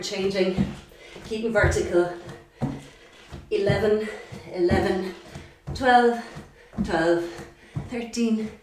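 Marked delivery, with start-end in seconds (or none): 3.5-8.5 counting while panting; breathless counting through the jumps; out of breath. Real, not acted. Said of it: "pardon me if I am panting".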